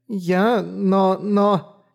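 put-on high, halting girl's stammer. A narrator's reading. Flustered girl stammering at Mora's plea. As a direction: stumble over the words, flustered.

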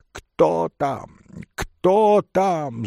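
high, loud challenge; old man shouting. A narrator's reading. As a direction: call out in alarm. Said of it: "закричал старик". (старик кричит в тревоге)

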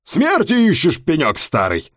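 angry driver yelling. Acted. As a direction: tell off the old man. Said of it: "заорал он".

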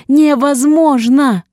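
slow, high drawn-out scream; anguished scream. A narrator's reading. Heroine screaming denial while fighting the nurse. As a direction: wail the word.

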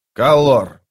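loud call across the camp. Acted. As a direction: call his name out loud. Brood calls for Kallor. (громкий оклик)

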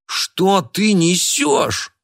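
high, very slow furious snap; snarling at her. Acted. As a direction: lash out at her in rage. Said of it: "вызверился на неё Кеша".

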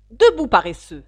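queen rousing the lazy griffon, shouting; angry shout. Acted. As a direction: wake him with a yell. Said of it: "dit la reine".

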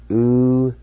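Ulsegi with the I silent and the L sounded; Cherokee pronunciation. Shown as a demonstration. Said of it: "You just pronounce the L sound like this".

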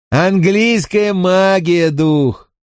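slow emphatic call, stressing "Английская"; triumphant cry. Acted. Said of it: "крикнул Винкулюс".

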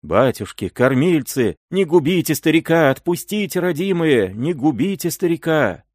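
high, pleading cries; old peasant begging the raiders to spare him, high pleading; desperate pleading. A narrator's reading. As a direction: beg for your life in a high plea. Old man begging for his life.

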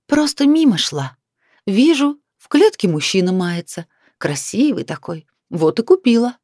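high, teasing sarcastic voice; sweetly mock him with sarcasm. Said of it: "в моём голосе прорезалось ехидство".

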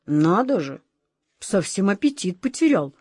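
lightly voiced grumbling tomcat; muttering cat. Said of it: "пробормотал кот Васька".

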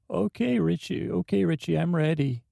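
chirpy send-up of a friend's voice; mock impression of James. Player mimics James for his partner, high and eager. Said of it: "that's how you're gonna do me".

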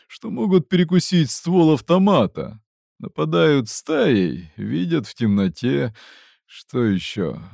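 lightly voiced gruff fighter; gruff mercenary. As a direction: warn like a hardened soldier. Mercenary explains mutants.

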